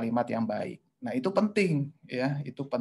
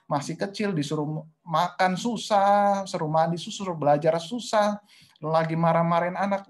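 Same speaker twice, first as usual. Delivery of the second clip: raised, insistent mock exasperation; high-pitched nagging; 6 semitones higher, 4 dB louder than usual. Mother struggling with small children, high-pitched nagging. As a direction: keep the pitch up, listing each complaint. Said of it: "ini nadanya tinggi terus biasanya".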